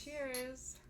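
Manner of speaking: talking around gum; mouth full. Real, not acted. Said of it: "I have gum in my mouth".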